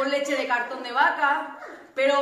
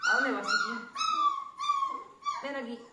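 talking to a dog; 7 dB quieter than usual. Real, not acted. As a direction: coo at a wandering puppy. Calling a wandering puppy.

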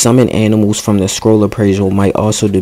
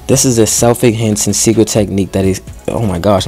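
tripping over the words; stumbling, stuttering read. Real, not acted. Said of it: "I'm stuttering like a mug".

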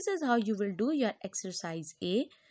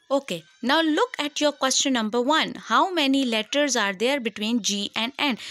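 raised teacher voice; 7 dB louder than usual. Real, not acted. Teacher calling class attention.

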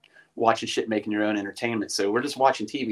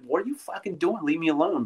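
annoyed yell; 5 semitones higher than usual. Retold or imitated. Roommate woken by sleepwalking friend.

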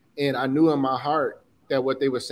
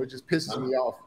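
getting emotional. Real, not acted. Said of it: "sorry for getting emotional".

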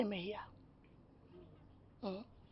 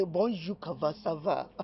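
French greeting; slower than usual. Acted. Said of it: "French people will say".

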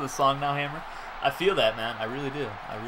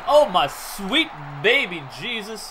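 slow awed exclamation; 4 semitones higher, 4 dB louder, slower than usual. Real, not acted. Reacting to open receiver.

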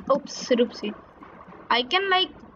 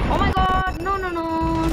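panicked shout; 6 semitones higher than usual. Real, not acted. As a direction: yell as it goes wrong. In-game danger, panicking.

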